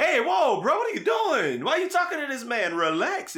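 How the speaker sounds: hammed-up police yell to back off; mock cop shout. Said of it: "the laws was like".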